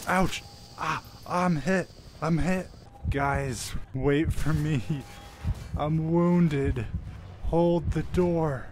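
mock dramatic dying hero; hammy wounded soldier. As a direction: overplay being shot, fading out. Fake dying soldier bit.

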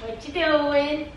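slow, winded question; pretend out of breath. Girlfriend pranking boyfriend at his game, feigning breathlessness. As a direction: fake being winded, drawing the words out. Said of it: "Why you talking like that?".

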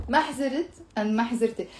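fast ما حزرت twice, stress on ما; quick comparison. Shown as a demonstration. Teacher asks students to compare both forms. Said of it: "when we say this".

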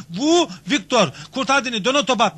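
usual speaking voice

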